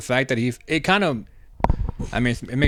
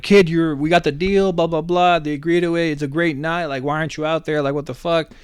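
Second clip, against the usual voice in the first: excited boss; 5 semitones higher than usual. Retold or imitated. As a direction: celebrate the deal, then scold. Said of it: "Oz barges in and saying".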